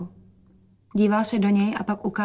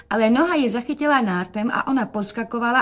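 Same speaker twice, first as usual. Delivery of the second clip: ordinary delivery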